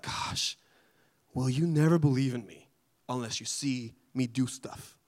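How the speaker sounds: whispered gosh, then a mildly fed-up question; a touch of weary exasperation; exasperated Jesus. Retold or imitated. Jesus to the begging father, mildly exasperated. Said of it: "maybe it wasn't in that tone".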